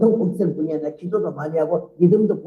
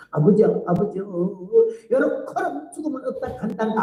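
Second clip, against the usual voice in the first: Jeolla dialect prayer. Retold or imitated. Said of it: "전라도 사투리로 기도를 하더라고".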